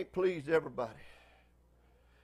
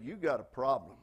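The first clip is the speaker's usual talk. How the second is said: put-on mild attitude, down-home Southern accent; 2 semitones lower than usual. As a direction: retell it as a blunt Southern rebuke. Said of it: "he said in a southern voice".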